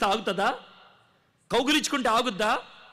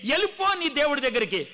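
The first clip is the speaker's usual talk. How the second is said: voice he heard; 6 semitones higher than usual. Retold or imitated. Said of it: "నాకు వినబడిన స్వరం".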